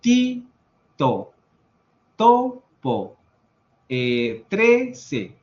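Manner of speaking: tongue on the teeth for each T; dental Spanish T. Shown as a demonstration. Teacher showing Spanish T, dental and emphatic. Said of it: "nuestra T está en los dientes".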